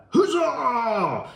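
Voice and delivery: high shouted huzzah; battle cry. Pretend. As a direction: cheer it like a rallying soldier. Unit's battle cry, inspire action.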